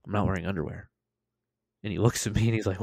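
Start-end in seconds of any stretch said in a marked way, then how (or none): 0.1-0.9 sheepish admission. Retold or imitated. Patient to medic cutting his pants, sheepish quiet admission. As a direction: imitate a reluctant admission. Reluctant first admission, later repeated.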